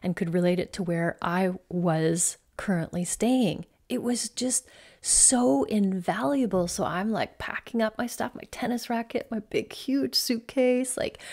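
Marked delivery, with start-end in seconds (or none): 3.9-6.7 breathy emphatic whisper, slowed. Real, not acted. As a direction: whisper it like a treasured secret.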